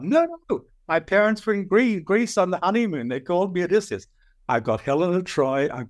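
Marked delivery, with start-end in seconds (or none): 0.0-4.1 higher, earnest protest voice; insistent young man. Retold or imitated. Odysseus explains his parents' honeymoon, earnestly. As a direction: insist it is really your name.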